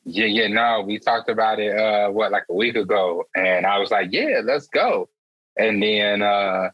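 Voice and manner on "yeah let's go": eager agreement. Retold or imitated. Retelling own eager agreement.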